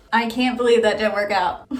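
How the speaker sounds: laughing frustration. Real, not acted. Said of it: "I'm so mad and bummed".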